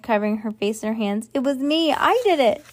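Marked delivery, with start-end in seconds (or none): 1.3-2.6 high, hammed-up confession; wailed. A narrator's reading. Ivy confesses to the others on her knees, wailed. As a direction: wail it out higher and higher. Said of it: "she wailed".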